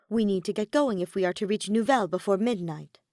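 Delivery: Edelgard's firm call. Acted. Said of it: "his lady's voice yanked him back".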